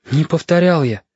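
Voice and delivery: put-on candid, high boyish denial; honest. A narrator's reading. Boy answers the captain's question, honestly. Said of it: "честно сказал Галька".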